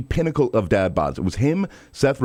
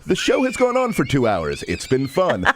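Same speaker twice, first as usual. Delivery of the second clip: mock situational narration; 3 semitones higher than usual. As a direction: imitate a host narrating the obvious in short sentences. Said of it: "really great situational narration".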